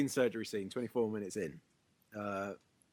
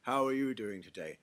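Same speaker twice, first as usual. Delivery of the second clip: mock Russell Crowe Brit accent; 5 semitones lower, 5 dB quieter than usual. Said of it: "he'll end a sentence incorrectly".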